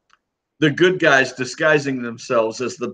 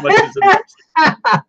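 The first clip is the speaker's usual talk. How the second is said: heated; 13 semitones higher, 5 dB louder than usual. Real, not acted. Heated argument with co-host.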